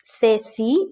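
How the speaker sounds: ce and ci with TH; C as TH before E and I; Spain's TH. Shown as a demonstration. Teacher showing learners ce, ci with TH. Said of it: "Normally for that sound".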